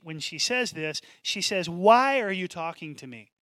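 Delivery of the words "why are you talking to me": lightly put-on New Jersey accent; a hint of a New Jersey woman challenging someone. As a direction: lay on a touch of New Jersey, leaning on the WHY. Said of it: "New, New Jersey accent when she".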